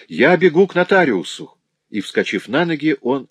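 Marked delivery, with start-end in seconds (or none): 0.1-1.6 high, loud outburst; excited exclamation. A narrator's reading. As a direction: call it out in a rush of excitement. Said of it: "воскликнул гранильщик, быстро собирая монеты".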